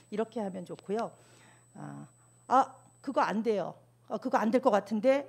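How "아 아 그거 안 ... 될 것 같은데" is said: blunt refusal. Shown as a demonstration. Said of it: "이렇게 하지 말고". (머뭇거리다 딱 잘라 거절하는 말투)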